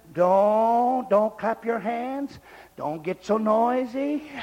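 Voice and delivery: slow, drawn-out mock scolding; mock stuffy churchgoer. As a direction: stretch out each fussy "don't". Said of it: "the attitude of a lot of churches".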